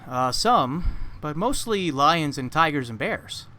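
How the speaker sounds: a hint of a nervous companion; man's reply. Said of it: "the man replies".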